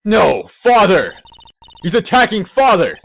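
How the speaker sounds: high, loud horrified shout; horrified cry. Acted. Boy crying out as his father is attacked, high horrified shouting. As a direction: cry out in terror for your dad.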